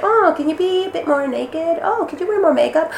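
high-pitched, sweetly pushy casting voice; mock casting director. Actress mimicking what women get asked in auditions, mock casting director.

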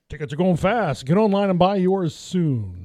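TV sales pitch voice; infomercial. Acted. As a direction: push it like a late-night ad. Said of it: "I hate to sound like a fucking infomercial".

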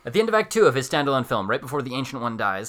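formal announcer read. Acted. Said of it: "get that announcer voice on".

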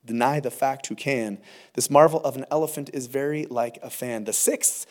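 measured, rhythmic poem recital; reading an old poem to the congregation, rhythmic. Acted. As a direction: recite the verses with a steady beat. Reads a poem aloud.

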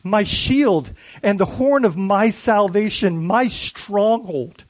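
slow, measured reading of a psalm; solemn reading aloud to the congregation; slow scripture reading. Acted. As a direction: savor each name for God, slowly. Reads the psalm slowly.

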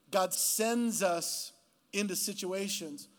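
God sends us, drawn out very slowly; slow emphatic restatement. Real, not acted. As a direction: land each word of "God sends us" slowly.

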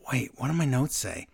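whispered aside to herself; whispering. Real, not acted. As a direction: mutter it under your breath. Muttering to herself over notes.

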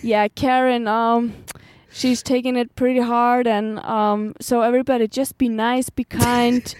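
slow, lightly voiced boss breaking into laughs; calm the staff while stifling giggles; mock boss.

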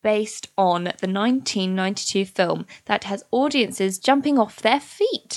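selling it like a show advert; pitching the musical to a radio audience, salesy; promo read. Acted. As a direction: read the blurb like a trailer voice-over. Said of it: "You have sold it".

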